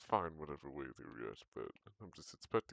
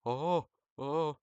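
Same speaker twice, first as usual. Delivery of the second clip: much higher, put-on voice; high pitched-up voice; 7 semitones higher, 5 dB louder than usual. Shown as a demonstration. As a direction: push the voice way up high. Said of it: "when I'm up here".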